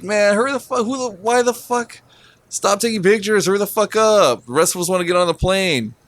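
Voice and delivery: high-pitched mock griping; re-enacted exasperated hurrying; retold impatience. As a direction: complain impatiently, without shouting. Retells griping at a stalled line.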